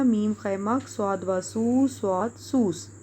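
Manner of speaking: drawn-out letter-by-letter spelling; patient teacher sounding out letters; slow spelling out. Shown as a demonstration. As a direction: spell each sound slowly for a child. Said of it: "یہ سواد دو بار آئے گا".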